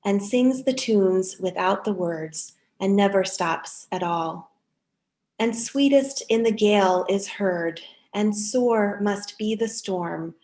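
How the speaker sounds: measured, lightly lifted poem reading. Acted. Reader sharing a Dickinson poem with the congregation, measured and gentle. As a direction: let each line land gently, like a reading at a service.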